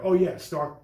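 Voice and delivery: usual speaking voice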